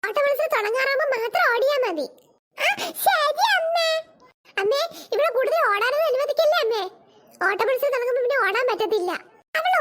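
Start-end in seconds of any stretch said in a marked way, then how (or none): 2.6-3.9 put-on slow, high childish whimper; whiny child. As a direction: drag it out like a sulking kid. Child whines to her mother. (കൊഞ്ചിക്കരയുന്ന കുട്ടി)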